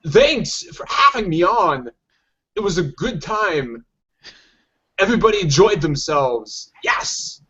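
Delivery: slow, halting Walken cadence with odd pauses; lightly voiced Walken, drawn-out phrasing; Christopher Walken impression. Podcast guest thanking the host, as Christopher Walken. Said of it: "a little Christopher Walken".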